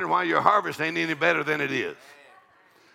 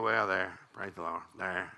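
lightly voiced smug stingy giver, lower; a shrugging churchgoer who gave nothing; 8 semitones lower, 4 dB quieter than usual. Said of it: "if you can give and go".

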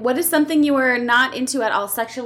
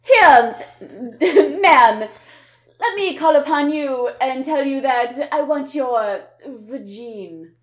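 eloquent suitor; 4 dB louder, slower than usual. Pretend.

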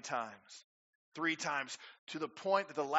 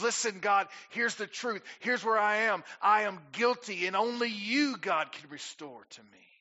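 loud, pleading cry to God; David pleading; 6 semitones higher, 8 dB louder than usual. Retold or imitated. Preacher voicing David confessing to God, loud plea. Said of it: "he comes before God and he says".

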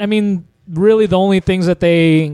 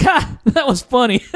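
mock amused laugh; 4 semitones higher than usual. Imitating amused public.

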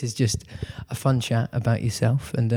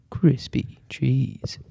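slow test phrase; much slower than usual. Shown as a demonstration. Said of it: "high fricative S noise".

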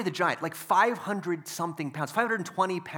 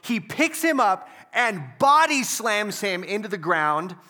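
ordinary talk

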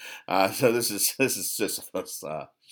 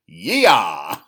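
startled yell; 8 dB louder than usual. Acted. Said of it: "the king says".

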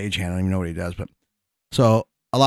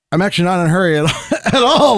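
laughing protest; 7 semitones higher, 3 dB louder, faster than usual. Retold or imitated. Insisting he's not rushed.

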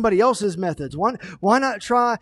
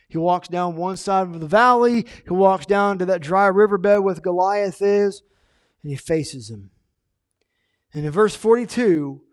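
ordinary talk, nothing marked

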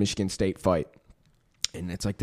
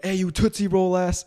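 higher-pitched street heckle, imitated; mock taunting call; 8 semitones higher than usual. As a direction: imitate someone calling out an insult. Robber calls out taunt in story.

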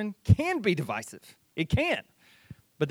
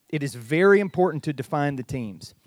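louder, firm declaration; emphatic; 4 dB louder than usual. Real, not acted. Preacher to congregation, second take louder and emphatic. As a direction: proclaim it with force after the hush. Repeats key line, then louder.

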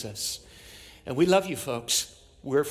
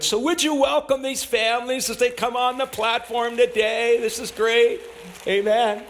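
excited call; 8 semitones higher, 4 dB louder than usual. Real, not acted. Calling families up to platform.

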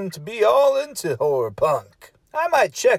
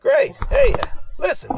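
jumps much higher, bright and quick; high excited. Acted. Quick switch to scold about mic.

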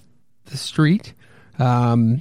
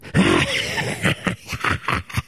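very low, airless villain laugh; a deep triumphant monster laugh; evil laugh; 4 dB quieter than usual. Acted. Monster laughs after death threat.

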